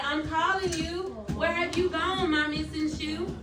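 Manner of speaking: "I'm calling you, where have you gone, my missing shoe?" read as a worried, searching call; expressive reading. Shown as a demonstration. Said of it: "if the author is talking like that".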